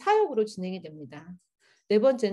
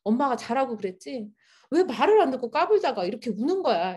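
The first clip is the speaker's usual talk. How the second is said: mock scolding; 2 semitones higher, 4 dB louder than usual. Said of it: "그냥 윽박지르면서".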